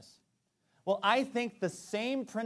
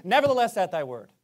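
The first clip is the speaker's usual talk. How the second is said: raised, louder on "Nevertheless, at thy word"; vow to God; 6 dB louder than usual. Pretend. Parent vowing to God, raised then dropping. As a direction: declare it like an oath. Answers the doubters.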